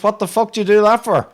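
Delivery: the stung fox yelps his outrage; outraged fox. A narrator's reading. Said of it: "And the fox says".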